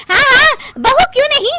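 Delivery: high, fast excited cheering. Acted. Mother-in-law urging the family to dance, excitedly. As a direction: whip everyone into dancing.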